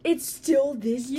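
disbelieving slow yell; shocked. Real, not acted. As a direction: blurt it in disbelief. Shocked shout.

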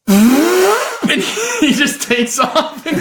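high, squeaky telling through real laughs; real giggling fit mid-story; helpless laughter. Real, not acted. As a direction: struggle to speak while cracking up. Cracks up at absurd dream.

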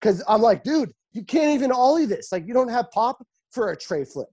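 high-pitched, worked-up rant; fired up. Real, not acted. Counselor fed up with kids who can't ollie, fired up. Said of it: "I'm getting all fired up".

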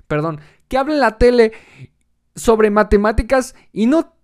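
a hint of a frantic parent ranting; mock despairing parent. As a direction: rant at the child in mock despair. Stressed parent ranting at child.

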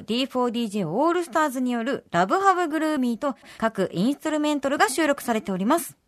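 clear, lively announcer delivery; polished radio announcement; radio information read. Acted. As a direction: read out programme news with crisp energy. Reads release news.

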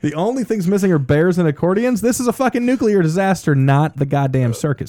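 a ranting Russian anchor in a mock accent. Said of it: "That's so good".

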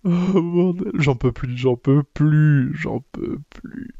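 slow, fading to almost nothing; mock despair. Real, not acted. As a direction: let it die away in comic exhaustion. Comic despair, repeated, fading.

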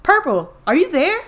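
high, loud panicked shriek in the dark; a loud frightened cry of someone suddenly blinded. A narrator's reading. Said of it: "and shrieked".

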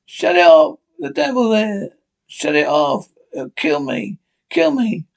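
panicked pleading. Acted. Trapped man begs to stop pump.

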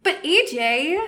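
plaintive, dragged-out protest; whining. Acted. Inessa pleading as Ajax leaves, whining. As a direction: protest with a small whine. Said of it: "Inessa whines again".

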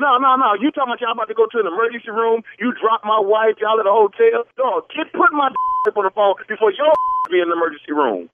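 loud, heated threat; a husband shouting at the stranger who has his wife's phone; angry shout. Real, not acted. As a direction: bark the threat over the phone.

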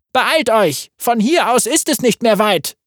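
high urgent call to the crowd. A narrator's reading. Norbert ruft die fliehenden Leute zur Eile, laut und hoch. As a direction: rush them along, voice lifted. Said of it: "Er rief".

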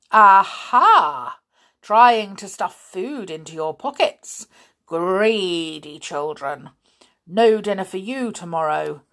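loud triumphant scolding; teacher catching pupils red-handed; gloating scold. Acted. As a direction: pounce on the greedy children. Grimm catches children with pastry.

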